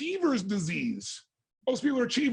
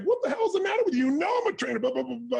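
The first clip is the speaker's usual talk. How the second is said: angry confrontation; 5 semitones higher, faster than usual. Retold or imitated. The speaker finally reaching John Grinder, angry outburst. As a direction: let him have it, fuming. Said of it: "I was so pissed".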